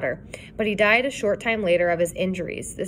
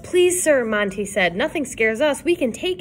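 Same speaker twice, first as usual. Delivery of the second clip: eager; 4 semitones higher than usual. Acted. Boys beg for the story.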